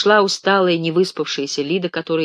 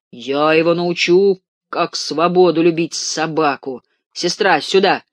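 mock outrage; 3 semitones higher, 5 dB louder than usual. Ganechka faking outrage to the ward, loud. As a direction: play the wronged innocent loudly.

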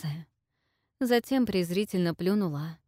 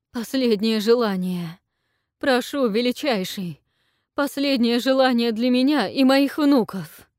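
higher, loud imploring plea; pleading queen; 5 semitones higher, 7 dB louder than usual. A narrator's reading. Queen begs the dragon for a last wish, imploring. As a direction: beg with everything left.

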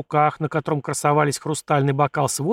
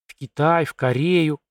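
lightly tipsy musing; slightly slurred; slower than usual. Acted. Tipsy prince listing lands he will visit, slightly slurred. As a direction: let the tongue trip a little. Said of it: "немного заплетающимся голосом".

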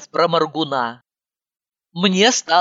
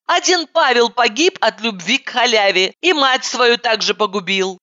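put-on high girlish voice; 8 semitones higher than usual. Heroine laments, high.

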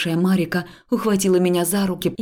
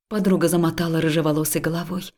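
plain reading voice

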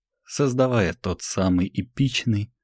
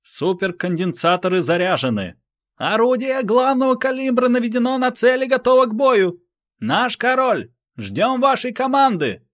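much higher, loud eager report; operator shout; 4 dB louder than usual. Acted. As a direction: shout readiness to the king. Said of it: "начали отзываться операторы".

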